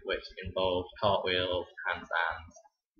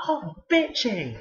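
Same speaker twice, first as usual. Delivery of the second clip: much higher, louder, slow drawn-out mock drunk exclamation; drunk pupil; 12 semitones higher, 6 dB louder, much slower than usual. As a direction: stretch it out like a drunk kid cheering. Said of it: "was like".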